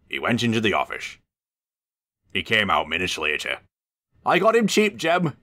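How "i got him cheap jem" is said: pleased, smiling. A narrator's reading. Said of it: "he smiled".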